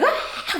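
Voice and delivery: high, thin mock scream; a high-pitched yelp imitating a screaming toddler; imitated baby scream. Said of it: "screaming her guts".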